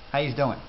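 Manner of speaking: How yous doing with yous said like is. Shown as a demonstration. Teacher shows the plural greeting with yous shortened to is. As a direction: squeeze yous into a quick is. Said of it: "shortened to something sounding more like is".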